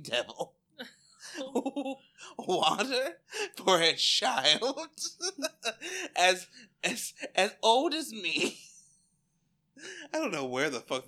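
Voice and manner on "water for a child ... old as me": louder, high, slow, outraged; hammed-up indignation; mock indignant. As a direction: scold like an insulted patient. Acted indignant rant.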